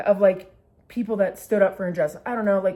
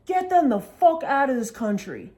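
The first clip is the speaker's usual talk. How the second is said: high-pitched, slow imitation of an irate heckler; mock angry outburst; 6 semitones higher, 4 dB louder, slower than usual. Bar patron ranting at a commercial, mock angry outburst. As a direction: act out a bigot yelling at the TV.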